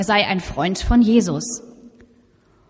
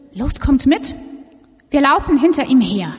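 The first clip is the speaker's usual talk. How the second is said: calling out; 6 semitones higher, 4 dB louder than usual. Acted. Villagers call out to follow.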